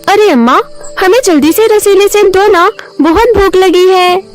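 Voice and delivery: put-on high, eager child voices; pleading children. Hungry children asking Amma for juicy apples, pleading. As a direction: plead like hungry kids, pitched well up.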